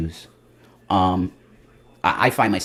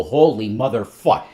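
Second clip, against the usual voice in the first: awed; slower than usual. Retold or imitated. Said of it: "you look up and go".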